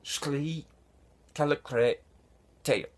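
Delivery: "Shli", "Kalikre", "Treap", each set apart by a pause; careful repeat of alien words "Shli Kalikre Treap", broken up; word-by-word pronunciation. Shown as a demonstration. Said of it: "harder to pronounce than it is".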